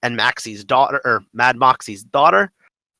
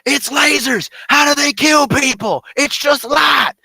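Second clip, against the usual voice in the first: high, full-force character screaming; Torg; 6 dB louder, slower than usual. Retold or imitated. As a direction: yell in loud, outraged disbelief. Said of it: "he's screaming at you".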